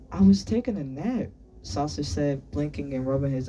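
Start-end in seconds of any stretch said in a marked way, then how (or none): 0.1-1.3 put-on higher-pitched American-accented boy; strong American accent. A narrator's reading. Boy explains his nap to teacher, American accent. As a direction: answer back in an American accent. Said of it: "spoke with a strong American accent".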